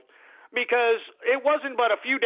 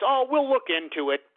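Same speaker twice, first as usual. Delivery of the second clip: mocking Merkel; 3 semitones higher than usual. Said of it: "all she said was".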